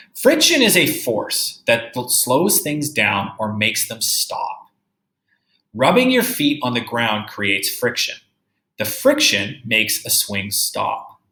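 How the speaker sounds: slow, careful read-aloud; reading a picture book to a class; reading to children. Acted. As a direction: read the book slowly for young kids.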